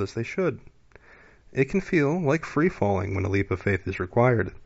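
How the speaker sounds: measured, solemn card reading; oracle card reading. Acted. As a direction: read it like a calm inspirational oracle. Reads an oracle card aloud.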